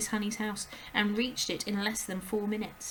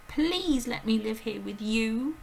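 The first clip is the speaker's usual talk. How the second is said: put-on high, loud, slow anguished child; high distressed little girl; breathless girl's cry; 4 semitones higher, 6 dB louder, slower than usual. A narrator's reading. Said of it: "Matilda cried out".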